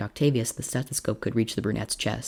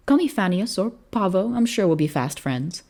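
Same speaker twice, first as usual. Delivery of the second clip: cheerful officer voice; 8 semitones higher, 3 dB louder than usual. A narrator's reading. Young officer, winking.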